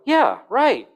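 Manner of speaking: high, loud, amazed "Yeah, right"; incredulous yeah right. Shown as a demonstration. Preacher showing tone to the congregation, high incredulous. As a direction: jump way up in disbelief. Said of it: "Just by my tone of voice".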